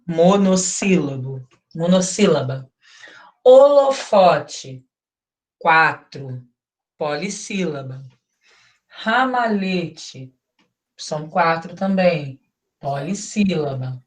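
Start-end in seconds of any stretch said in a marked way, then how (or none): 3.4-4.8 slow, syllable by syllable, a bit louder; syllables spelled out. Shown as a demonstration. Teacher counting syllables aloud for her class, slow and spaced. 8.9-10.3 syllables spelled out. Shown as a demonstration. Teacher counting syllables aloud for her class, slow and spaced.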